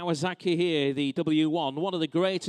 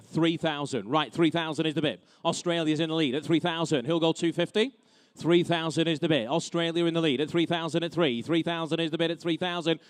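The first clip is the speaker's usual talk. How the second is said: brisk auction bid calling; auctioneer. Real, not acted. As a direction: rattle off the bids like an auctioneer.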